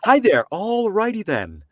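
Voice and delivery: high, slow, drawn-out Ace Ventura; goofy high slow Ace Ventura voice; Ace Ventura impression. Shown as a demonstration. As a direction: stretch "all righty then" up high and slow. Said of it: "a poor man's Ace Ventura".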